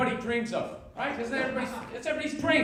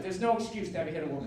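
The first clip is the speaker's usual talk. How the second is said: mocking TV line; 6 semitones lower, 6 dB quieter, faster than usual. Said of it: "I like when they say that shit".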